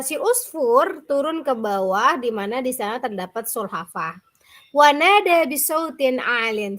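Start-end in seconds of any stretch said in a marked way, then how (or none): 4.8-6.8 raised calling voice; calling loudly. Shown as a demonstration. Teacher reads a loud call in the fable. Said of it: "dengan suara yang kencang".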